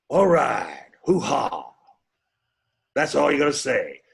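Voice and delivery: lightly voiced emphatic film actor; Al Pacino. Impressionist showing how to do an actor, emphatic impression. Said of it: "how about, um, Al Pacino?".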